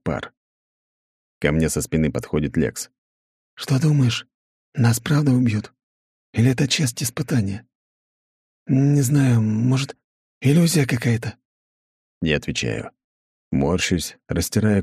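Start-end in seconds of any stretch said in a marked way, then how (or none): 3.6-11.4 put-on a higher, uneasy young voice. A narrator's reading. Lex asking the narrator, worried and unsure. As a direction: ask anxiously, unsure.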